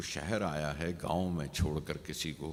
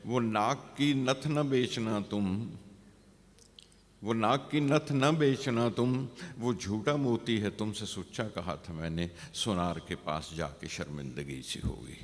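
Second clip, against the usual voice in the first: poem recitation; 2 semitones higher, 3 dB louder than usual. Acted. Poet warns the beloved against selling her nose ring, lifted recitation.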